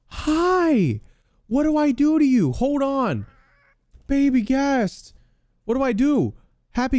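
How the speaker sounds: very high, loud cooing. Real, not acted. Gamer greets the baby ghast in squeaky baby talk.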